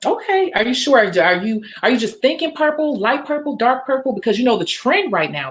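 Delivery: playing the salon tech, upbeat and friendly; nail tech role. Technician chatting to her pretend client, upbeat. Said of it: "pretend like you're my client".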